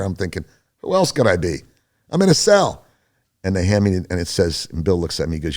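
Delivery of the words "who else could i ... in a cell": incredulous retort, jumping high and louder at the end; mock exasperation, voice leaping up on the last phrase; exasperated. Prisoner thinking back at guards who ask his name, exasperated.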